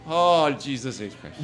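slow Arabic-accented phrase. Shown as a demonstration. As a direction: say it like an Arabic speaker. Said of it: "How do you say".

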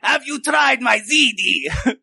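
high, slow, drawn-out mother impression; badly faked mom voice. Magician ventriloquises Carl's mother, high drawling mock voice. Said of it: "I can't do that voice, dude".

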